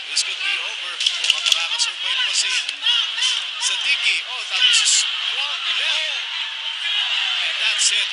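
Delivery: high, urgent ringside call; excited knockout call. Real, not acted. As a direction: shout it as the fighter goes down. Commentators calling the knockout live.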